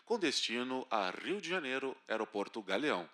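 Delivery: low, slow boarding call; airport announcement. Retold or imitated. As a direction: drone it like a gate announcer. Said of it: "te chamam".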